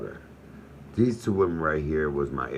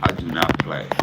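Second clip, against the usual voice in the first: ordinary talk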